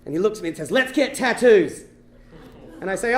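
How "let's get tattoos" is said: slow drawn-out suggestion. Retold or imitated. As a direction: drag out each word slowly. Sailor's slow proposal.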